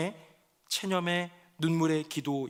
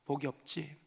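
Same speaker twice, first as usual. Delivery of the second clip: despairing lament; 3 semitones lower, 3 dB quieter than usual. Acted. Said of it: "낙담과 체념의 눈물의 기도입니다".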